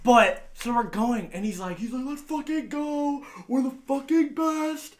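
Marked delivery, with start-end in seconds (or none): 2.1-4.9 high, slow, stretched-out boast; drawn-out hyped bragging; triumphant mock cheer. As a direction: imitate a friend crowing over a win. Acts out driver's triumphant boast.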